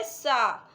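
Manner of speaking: सा called out clearly; loud letter sound. Shown as a demonstration. Teacher answering for children: clear सा. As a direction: give the kids a clear सा. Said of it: "से का sound क्या है?".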